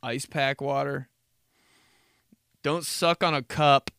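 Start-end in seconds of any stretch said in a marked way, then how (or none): 2.6-3.9 said through a laugh; plain chuckled line; amused own voice. Real, not acted. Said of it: "my mom".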